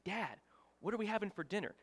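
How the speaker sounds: retold irritated question, close to his ear; a little irritated. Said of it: "like I'm whispering in his ear".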